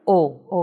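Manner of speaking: O said closed, as ô; closed O sound. Shown as a demonstration. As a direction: model a closed ô for the letter O. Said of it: "terminação em som fechado".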